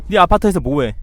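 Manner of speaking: usual speaking voice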